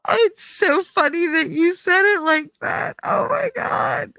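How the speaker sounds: very high, squeaky laughing voice; helpless amusement. Real, not acted. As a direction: talk through a fit of giggles. Still laughing at viewer's comment.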